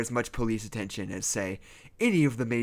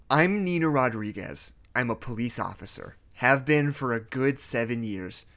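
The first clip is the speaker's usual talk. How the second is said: story narration. Acted. Reads creepypasta as narrator.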